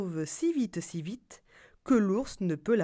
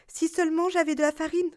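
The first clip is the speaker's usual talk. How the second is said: put-on old woman voice; 8 semitones higher, faster than usual.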